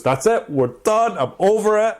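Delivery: a hammed-up furious dumping on the ride; retold shout. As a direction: yell it like a scared man on a roller coaster. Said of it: "he is losing his mind".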